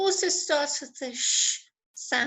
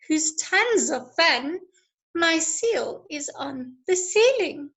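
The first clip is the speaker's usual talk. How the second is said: brisk, lilting read-aloud of a rhyming poem. Acted. Teacher reading a funny animal poem to her class, lively and rhythmic. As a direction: read the rhymes with bounce and pace.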